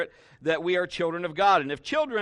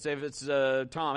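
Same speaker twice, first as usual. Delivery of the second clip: usual speaking voice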